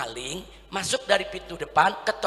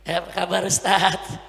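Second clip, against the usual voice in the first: lightly camp hello, pitched down; mock effeminate greeting. Preacher mimicking a man greeting an Ustaz, mock effeminate. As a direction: imitate a dainty man saying hello. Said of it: "tapi kalau jalan tangan begini".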